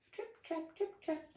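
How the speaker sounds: hushed, quick whisper of hooves; a teacher whispering the goat's steps for children; whispered trip trap. Acted. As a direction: breathe the footsteps softly and fast. Middle goat crossing bridge.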